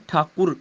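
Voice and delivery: ਠਾਕੁਰ with short u after k. Shown as a demonstration. Teacher explaining the vowel mark, ਠਾਕੁਰ with short u. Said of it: "ਕੱਕੇ ਨੂੰ ਔਂਕੜ ਹੈ".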